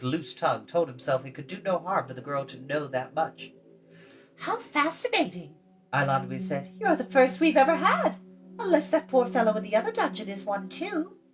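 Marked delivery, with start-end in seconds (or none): 4.4-5.5 put-on high, bright girl's voice; chatty girl. Eilonwy talks down to Tarn, high and bright. 6.8-11.2 put-on high, bright girl's voice; chatty girl. Eilonwy talks down to Tarn, high and bright.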